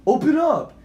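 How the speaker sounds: high, loud shout at a door; acted stranger's insistent shout; demanding call. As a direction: holler to be let in.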